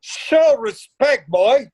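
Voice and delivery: slow, weighty warning; stern rebuke. Acted. Father scolding the young sailor, slow and stern. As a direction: lay down the law, slowly.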